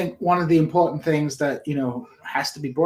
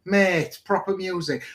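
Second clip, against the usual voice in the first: mock-proud Hull local; Hull accent; 4 semitones higher, 3 dB louder than usual. Shown as a demonstration. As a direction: lay on the Hull accent with pride. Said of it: "That's how people speak in Hull".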